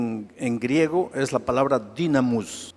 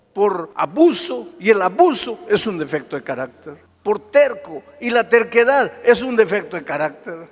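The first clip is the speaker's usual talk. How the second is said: loud, rising sermon cadence; preacher pounding the refrain; fiery preaching; 8 semitones higher, 6 dB louder than usual. Acted. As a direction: hammer each point home to the congregation. Preaching at full force.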